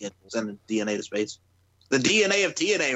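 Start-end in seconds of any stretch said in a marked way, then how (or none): 1.9-2.9 punchy catchphrase. Pretend. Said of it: "Remember that, Daz?".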